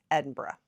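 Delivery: "Edinburgh" ending in a soft -bruh, no hard g; careful local-style "Edinburgh", last syllable swallowed; proper pronunciation. Shown as a demonstration. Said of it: "learned how to properly pronounce".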